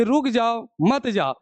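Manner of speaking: रुक जाओ set apart from मत जाओ; telling to stay. Shown as a demonstration. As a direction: break after रुक जाओ, then मत जाओ together. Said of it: "रोक रहे हैं कि".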